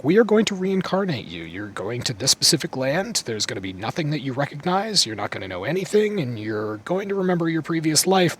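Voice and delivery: a hint of breezy goddess rattling off terms; lightly voiced goddess. Water goddess explaining reincarnation, lightly acted spiel. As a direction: pitch jumping up at each new rule. Acts goddess's speech to the dead man.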